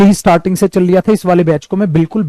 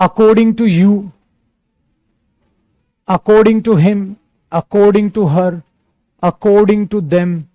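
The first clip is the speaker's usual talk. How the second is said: slow listing; much slower than usual. Shown as a demonstration. Teacher lists phrases for students.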